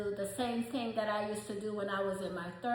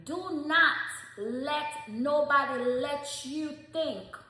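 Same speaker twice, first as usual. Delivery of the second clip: forceful; 4 semitones higher, slower than usual. Real, not acted. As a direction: drive it home. Urging stylists firmly.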